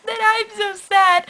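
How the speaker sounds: slow, high whimpering pout; mock sad whine. Fan pretending to sob at Valjean's death. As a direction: whine it out like a sulky child. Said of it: "I'm just like".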